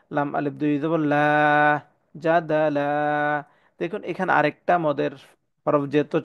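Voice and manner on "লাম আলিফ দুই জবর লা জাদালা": জাদালা with its final aa drawn out; one-alif madd at pause. Shown as a demonstration. Teacher shows stopping on double zabar, stretched last vowel. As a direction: let the end of জাদালা lengthen evenly. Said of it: "সেখানে এক আলিফ টেনে পড়তে হয়".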